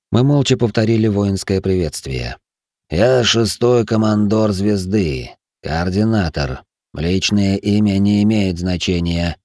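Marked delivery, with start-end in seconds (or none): 2.9-9.4 put-on slow, creaky old man voice. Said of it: "произнёс Космо скрипучим голосом".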